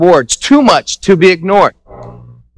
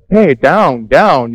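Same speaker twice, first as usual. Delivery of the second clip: calming down; 6 semitones lower, much slower than usual. Retold or imitated. Calming the overexcited friend.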